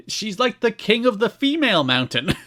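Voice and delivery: high-pitched excited commentator voice; Don West. Retold or imitated. Host quoting the commentator on Trinity, mock excited.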